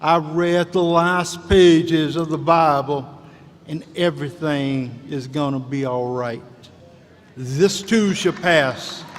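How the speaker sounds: slow Southern preacher drawl; a lightly done Southern drawl, slow and measured; Billy Graham drawl. Retold or imitated. Commencement speaker quoting the reverend, light slow Southern drawl. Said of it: "in that deep Southern drawl".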